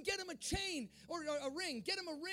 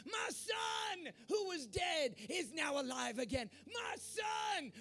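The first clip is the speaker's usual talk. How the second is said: father shouting; 4 semitones higher, slower than usual. Acted. Father voiced calling for feast.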